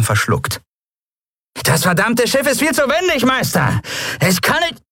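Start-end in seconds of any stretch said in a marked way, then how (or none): 1.6-4.8 much higher, panicky servant pleading; whining servant. A narrator's reading. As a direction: excuse himself to his master. Servant whines to his master.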